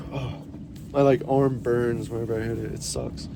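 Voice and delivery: talking through arm pain; wincing from the funny bone; hit my funny bone. Real, not acted. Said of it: "I just hit my funny bone".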